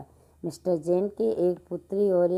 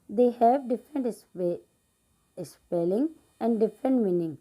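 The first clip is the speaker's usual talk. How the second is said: slow, careful classroom reading; slow read-aloud; much slower than usual. Acted. Teacher reading an English example sentence slowly to pupils.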